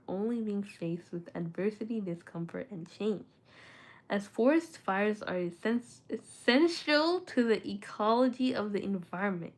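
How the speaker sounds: reading around dental retainers; slightly blocked speech from retainers; retainers in mouth. Real, not acted. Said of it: "I need to take off my retainers".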